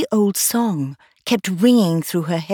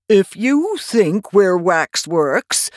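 Tweedledum voice; 3 dB louder, much slower than usual. Acted.

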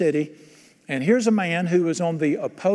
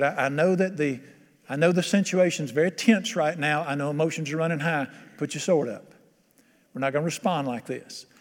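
voice of sanity. Acted. King telling his men to stand down, calm and sane. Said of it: "he brought some sanity into the situation".

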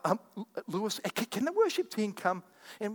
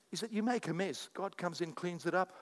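soft confiding voice; 6 dB quieter than usual. Real, not acted. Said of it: "why am I talking like this?".

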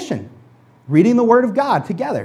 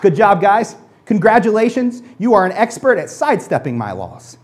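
lightly sarcastic praise, a touch louder; mock congratulate them dryly; 2 semitones higher, 3 dB louder than usual. Jesus mocking the Pharisees' expertise, lightly sarcastic. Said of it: "in a little bit of a sarcastic tone".

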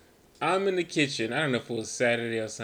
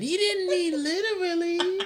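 laughing high; 4 dB louder than usual. Retold or imitated. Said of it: "Right, yeah".

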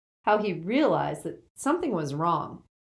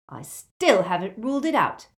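muffled; 3 semitones higher, 6 dB louder than usual. A narrator's reading. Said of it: "Hermione's muffled voice from beneath her blankets".

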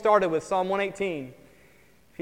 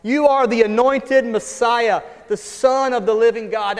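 proclaiming confession; 3 semitones higher, 5 dB louder than usual. Retold or imitated. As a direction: proclaim it boldly, leaning on you. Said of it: "One of the best confessions".

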